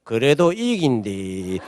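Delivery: low, slow, unruffled; quietly certain, unbothered; calm assurance. Retold or imitated. Calm pastor amid panic. (목사님의 느긋하고 확신에 찬 말투)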